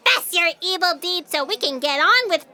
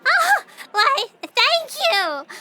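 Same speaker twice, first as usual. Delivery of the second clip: much higher, coy thank you; flattered delight; 9 semitones higher, slower than usual. Acted. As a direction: preen at the compliment. Flattered by praise.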